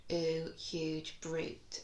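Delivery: ooh stretched long and slow in Ooh, huge brute; drawn-out ooh. Shown as a demonstration. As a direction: hold the ooh sound, then say huge brute. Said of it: "they will all include our new sound".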